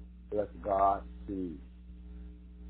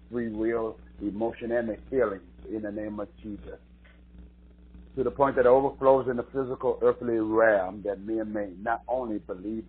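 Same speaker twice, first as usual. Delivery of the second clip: earnest pastoral prayer with emphatic surges; spoken prayer. Real, not acted. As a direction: pray aloud over the congregation, phrase by phrase. Leads prayer before preaching.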